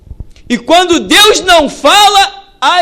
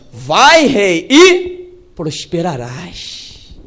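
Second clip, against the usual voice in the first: false prophet; 7 semitones lower, much slower than usual. Retold or imitated. False prophets flatter the king.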